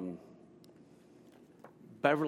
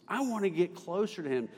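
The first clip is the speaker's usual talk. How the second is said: a hint of a churchwoman's voice; mild impression, pitched above the telling; Miss Penner; 2 semitones higher, faster than usual. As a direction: lightly imitate her as she confides. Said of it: "She said it like this".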